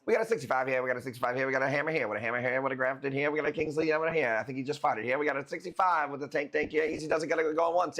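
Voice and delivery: auctioneer. Shown as a demonstration. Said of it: "You wanna hear me do the auction voice?".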